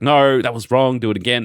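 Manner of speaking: mock stern mum. Vlog mum correcting kid's fake cry.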